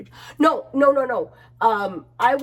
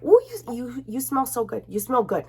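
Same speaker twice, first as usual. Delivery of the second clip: imitating church member. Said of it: "a church member was like".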